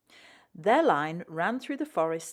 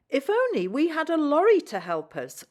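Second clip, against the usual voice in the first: mild sigh; 8 semitones higher, 6 dB louder than usual. A narrator's reading. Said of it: "Rusty sighed".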